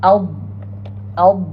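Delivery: "Al-" closed on a held Arabic Dad; articulation demo. Shown as a demonstration. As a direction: press "Al-" into a sustained heavy d sound. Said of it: "make sure your tip".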